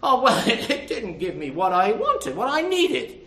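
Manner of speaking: laughing mock whine of a leaving churchgoer; parodying a churchgoer who leaves, with a laugh; mock complaint, laughing. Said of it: "people leaving churches because".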